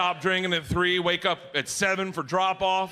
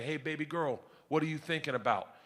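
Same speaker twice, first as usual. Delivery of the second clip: tender; 3 semitones lower, 7 dB quieter than usual. Retold or imitated. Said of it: "Great moment as a parent to say".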